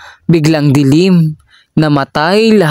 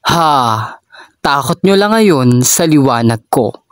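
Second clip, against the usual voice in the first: mild taunt. Acted. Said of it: "Banta pa ni Ching".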